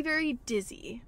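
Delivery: whispered confession so Mom won't hear. Real, not acted. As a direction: drop to a secret whisper. Hiding it from Mom.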